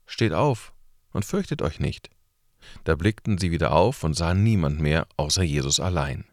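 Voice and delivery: measured, unhurried Bible reading; solemn scripture reading. Acted. Reader presenting the Gospel passage to listeners, solemn and measured.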